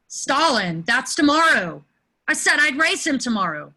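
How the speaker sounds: a sudden alarmed shout; panicked remembering; alarmed realization. Acted. Lane remembers the race.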